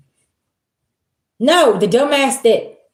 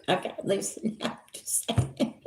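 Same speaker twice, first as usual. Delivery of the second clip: laughing softly; 13 dB quieter than usual. Real, not acted. Laughing aside.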